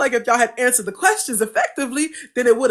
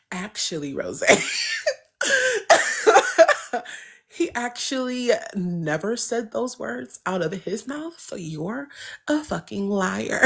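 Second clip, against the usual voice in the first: mocking pedants; 5 dB quieter than usual. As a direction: drone it like a smug know-it-all. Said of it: "them motherfuckers was like".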